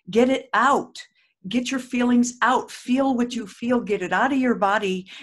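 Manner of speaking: rousing call to vent; urgent encouragement. Real, not acted. Urging listeners to vent.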